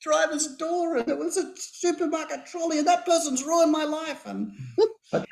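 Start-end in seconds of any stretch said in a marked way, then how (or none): 0.0-4.2 higher, mock voice of the universe; a lightly hammed-up cosmic lecture; the universe teasing him over his dented car; universe talking. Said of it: "Universe is speaking to me, going".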